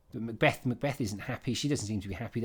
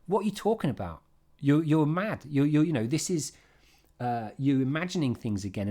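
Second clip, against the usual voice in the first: scolding Lady Macbeth; 4 semitones higher, 5 dB louder than usual. Retold or imitated. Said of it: "And she goes".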